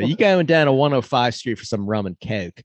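playful thick Maryland-Baltimore vowels; Baltimore accent. Acted. Maryland local asking about Ocean City, Baltimore accent.

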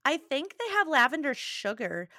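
said in a Midwest accent; casual Midwest accent slip. Real, not acted. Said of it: "I just said that with a Midwest accent".

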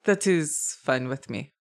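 mild German-style dwarf voice; understated accented craftsman; lightly accented dwarf. Acted. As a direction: agree with a hint of German accent. Game master plays the dwarf.

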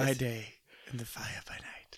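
hushed unvoiced whisper. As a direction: breathe it out as a whisper. Whispered scripture line.

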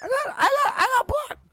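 laughing high through the words; giggling it out; words squeezed through laughter. Real, not acted. Laughing at own story.

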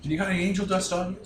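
a hint of a zany Robin Williams bit. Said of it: "Robin Williams".

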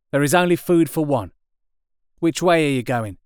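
gruff possessive survivor; artilleryman. A narrator's reading. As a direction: warn him off his patch. Artilleryman continues.

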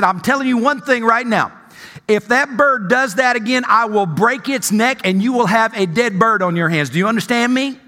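acted, mildly angry warning; fed up. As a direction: lay down an ultimatum with a touch of anger. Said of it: "she's really getting fed up".

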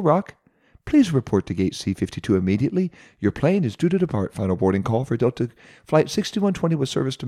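gate agent announcement voice; over the intercom. Retold or imitated. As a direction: imitate a boarding call on the PA. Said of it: "the gate agent was already making her ominous".

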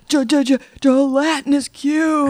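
stammering in fear, drawn out; frightened stammer. Acted. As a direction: stutter it out slowly, panicked. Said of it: "I'm like".

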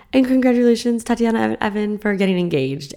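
high, loud toast announcement, settling as it goes; imitating a friend's celebratory toast; reenacted toast. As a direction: announce it to the whole table, starting big. Acts out friend ending a toast.

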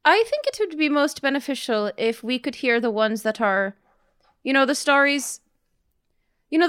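put-on toothless old voice, lips over teeth. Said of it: "I'm trying to put my lips over my teeth".

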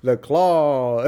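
lightly imitated Claw; a hint of the movie's Claw voice; Jerry. Playing it for the kids, light imitation. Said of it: "I always do Jerry's version".

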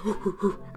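imitated Dalmatian woofing; dog noise. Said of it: "head of a Dalmatian also kinda goes".

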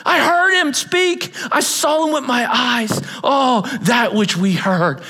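John's passionate testimony. Acted. Preacher voicing John's passionate testimony.

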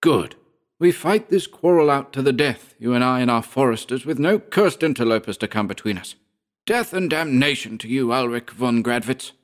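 high-pitched, bitter curse; snarling. A narrator's reading. Georg vowing a fight to the death, snarling. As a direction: hurl defiance at a sworn enemy. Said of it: "snarled Georg".

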